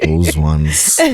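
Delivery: low flat "Those ones." sinking down; deadpan repeat. Real, not acted. Repeating the dig at the rival brand, low deadpan.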